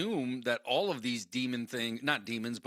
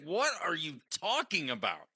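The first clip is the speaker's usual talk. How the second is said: higher-pitched incredulous retort; baffled; 4 semitones higher than usual. Retold or imitated. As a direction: act out mock bewilderment at the question. Acted baffled reply in retold exchange.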